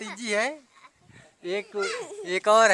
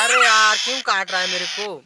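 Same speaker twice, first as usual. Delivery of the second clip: pained surprise; 3 semitones higher, 10 dB louder than usual. Real, not acted. Bird bites him.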